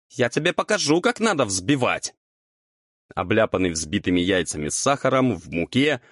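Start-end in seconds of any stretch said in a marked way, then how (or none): 0.1-2.1 mild acted yell of retaliation; crying out. A narrator's reading. Devil hurls flour bowl at friend, crying out. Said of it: "запустил её в друга с криком".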